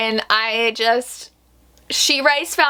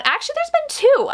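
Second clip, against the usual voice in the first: sudden realization. Real, not acted. Suddenly remembers a second book.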